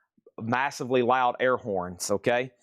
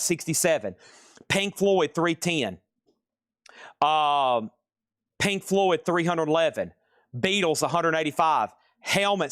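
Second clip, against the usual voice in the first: auction calling; 3 semitones higher than usual. Acted. Seller calling out the live bids on each record, auctioneer style.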